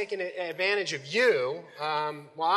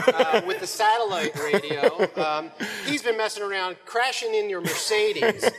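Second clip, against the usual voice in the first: giggling through words; 3 dB louder than usual. Real, not acted. Volunteer role-play, giggling.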